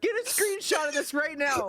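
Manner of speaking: excited shout. Real, not acted. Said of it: "for the love of God".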